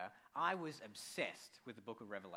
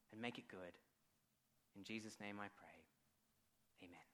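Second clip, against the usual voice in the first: prayer. Acted. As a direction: pray gently over the congregation. Leads an opening prayer.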